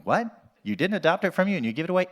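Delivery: mock disbelief, rattled off fast; imitating an incredulous listener. Acts out an incredulous audience member.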